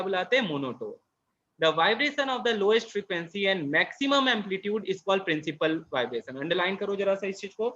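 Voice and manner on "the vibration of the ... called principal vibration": first read-through, very slow; slow dictating read; slow dictation. Shown as a demonstration. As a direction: lay the definition out slowly for writing.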